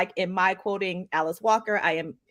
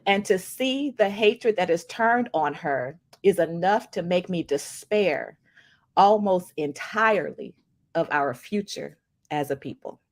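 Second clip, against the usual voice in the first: slow, deliberate recitation with long pauses; quote reading; slower than usual. Acted. Podcast host reading Alice Walker's quote on colorism, slow recitation. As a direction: let each phrase of the quote land.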